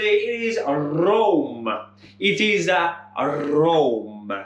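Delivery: put-on drawn-out Italian accent with rolled R. Quizmaster giving viewers the answer in his best Italian accent. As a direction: ham up a slow Italian accent. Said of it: "That's the best Italian accent".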